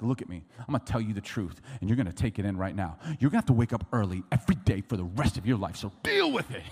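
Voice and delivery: brisk retold scolding, punching the ending; stern dad lecture. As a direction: play a fed-up father laying down the law. Dad lecturing his grumbling son.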